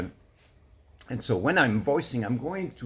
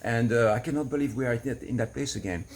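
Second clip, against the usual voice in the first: voicing anger. Shown as a demonstration. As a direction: let the anger spill out freely. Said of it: "Then I can voice it".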